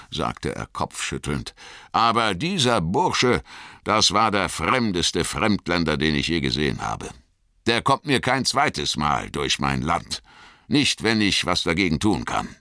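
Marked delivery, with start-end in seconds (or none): 1.9-12.5 a farmer breaking into a grin; pleased farmer. Acted. Farmer grumbles about stranger.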